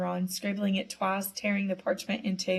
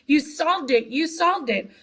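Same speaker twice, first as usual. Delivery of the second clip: high, louder happy cry; excited screaming; 7 semitones higher, 4 dB louder than usual. Retold or imitated. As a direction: shout it as you run to him. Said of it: "running towards him screaming".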